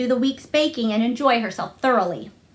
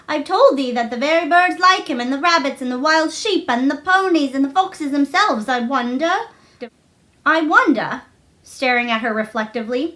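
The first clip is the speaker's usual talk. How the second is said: Martha, lightly voiced; 3 semitones higher than usual. Martha about Dickon.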